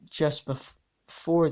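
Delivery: brief real crack in the voice, then restart the word. Real, not acted. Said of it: "Excuse my voice crack there".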